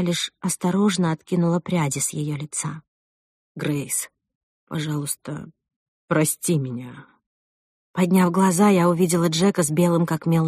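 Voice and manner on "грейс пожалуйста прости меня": guilty plea. Acted. Guilty groom apologizing.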